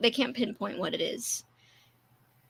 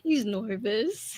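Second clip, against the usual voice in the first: drawled tease; 2 semitones lower, much slower than usual. Pretend. Drawled teasing, repeated in turn.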